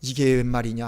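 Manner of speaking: rising, pained disappointment; resentful lament. Pretend. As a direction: voice the master's wounded complaint to a disciple who failed. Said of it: "원망하시는 그런 눈빛이었을까요".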